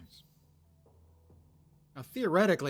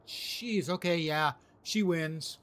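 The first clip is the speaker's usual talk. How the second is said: disgusted surprise; 5 semitones higher, 7 dB louder, slower than usual. Real, not acted. Reacts to gross item text.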